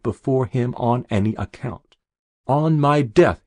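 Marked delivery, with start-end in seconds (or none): 2.5-3.4 louder, higher, defiant; defiant shout. Acted. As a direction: fling the words out in defiance. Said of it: "as if he were defying me".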